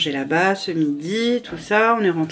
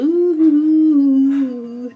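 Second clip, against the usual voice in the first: weary groan; 8 semitones higher, 5 dB louder, much slower than usual. Real, not acted. Exhausted after early start.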